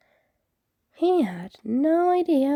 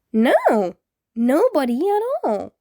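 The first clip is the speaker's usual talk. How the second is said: frantic; 5 semitones higher, 4 dB louder than usual. A narrator's reading. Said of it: "borderline frantic".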